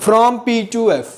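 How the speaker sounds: slow, deliberate; slow emphatic dictation. Shown as a demonstration. Teacher drilling the phrase into memory, slowly. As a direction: hammer the phrase home slowly. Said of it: "याद रखना है".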